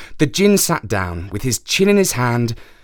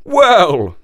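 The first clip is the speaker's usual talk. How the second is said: high horse voice; 7 semitones higher, 6 dB louder than usual. Acted. Horse starts its complaint.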